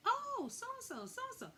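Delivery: put-on high, sloppy drunk voice; drunk greeting. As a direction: slur it like a tipsy friend. Drunk Samantha greets loudly.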